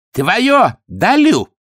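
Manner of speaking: high, grand broken-Russian gift; generous. A narrator's reading. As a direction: hand it over with a flourish. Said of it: "щедро заявил Ходя".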